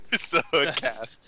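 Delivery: distorted demon voice; voice modulator. Acted. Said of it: "What happened to his voice?".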